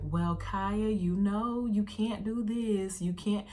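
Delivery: mock gently babying a grandchild; babying grandma. Grandma coddling her tired granddaughter, babying tone. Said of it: "it was just the tone of her voice".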